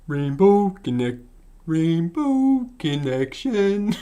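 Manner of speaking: slow, drawn-out puppet frog voice; attempted Kermit. Player mocking up a frog voice, slow Kermit impression. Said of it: "I'll try and mock up Kermit".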